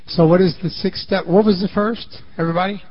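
normal talking voice

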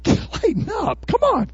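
high, slow and soft, a relaxed Jesus; easygoing Jesus. Retold or imitated. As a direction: lift the voice high and drawl it gently. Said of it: "Jesus says".

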